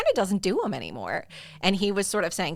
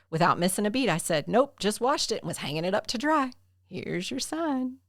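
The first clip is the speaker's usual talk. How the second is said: put-on Southern accent. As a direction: tell it like a Southern comic, easy and dry. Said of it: "hearing you do a Southern accent".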